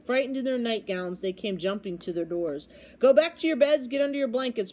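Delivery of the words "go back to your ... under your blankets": urgent, raised-voice call; crying out. A narrator's reading. Bartholomew urging frightened lords and ladies to bed, crying out. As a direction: call it out high and loud. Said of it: "Bartholomew Cubbins went crying through the halls".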